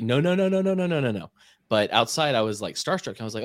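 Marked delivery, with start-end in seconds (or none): 0.0-1.3 rapid high frantic nos, louder; silently panicking, no no no; inner panic. Retold or imitated. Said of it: "in my head, I was like".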